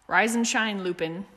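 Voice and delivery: bright, loud morning wake-up call, pitched high; far too cheery. Acted. Sirius waking Remus far too cheerily, loud and high. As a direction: cheerfully rouse a sleepy friend. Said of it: "far too cheery for such an early hour".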